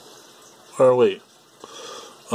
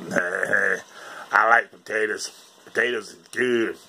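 Forrest Gump; 10 semitones lower, 7 dB quieter than usual. Retold or imitated. Imitating a film character who likes potatoes, lightly drawled. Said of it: "Yeah, Forrest Gump".

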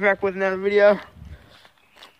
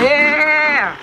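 excited; 5 semitones higher, 5 dB louder than usual. Real, not acted. Whooping while riding.

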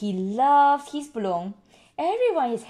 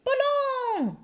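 high squawky parrot word. Acted. Polly the parrot squawking balloon. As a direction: say it like a parrot would. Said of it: "cries Polly".

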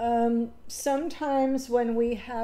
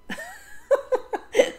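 high, teary burst of laughter; a real, high laugh on the verge of tears; emotional laugh; 3 dB louder than usual. Real, not acted. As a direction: laugh through rising emotion. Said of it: "I am really emotional".

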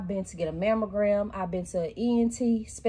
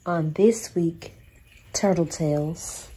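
whispered title; 3 semitones lower, slower than usual. Acted. Show segment title whispered.

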